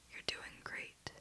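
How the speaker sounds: slow, tender whisper of encouragement; comforting a frightened partner, tender whisper; reassuring whisper. Acted. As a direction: soothe her gently and slowly. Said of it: "I whispered to her".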